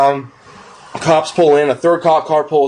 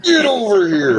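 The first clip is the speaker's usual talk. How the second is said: slow, higher hammed-up villain cry; mock Scorpion call; 6 semitones higher, slower than usual. Buddy echoing the spear line as a slowed mock villain cry. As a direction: stretch it like the fighting-game line.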